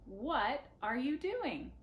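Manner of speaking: slow, clear question for learners; teacher modelling a question; slow model question. Shown as a demonstration. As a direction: model it slowly. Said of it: "Let's try it again".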